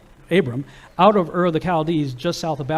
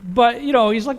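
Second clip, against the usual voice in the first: ordinary talk, nothing marked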